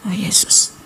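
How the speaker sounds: whispered retold gasp of awe; breath-only reaction, reenacted; hushed startled awe. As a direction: whisper it, taken by surprise. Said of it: "Saya kaget".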